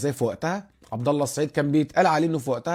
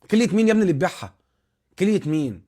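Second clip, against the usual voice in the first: higher, louder, fast incredulous scoff; exasperated disbelief; 5 semitones higher, 5 dB louder than usual. Real, not acted. Host scoffing at fans who would sell a kidney, exasperated.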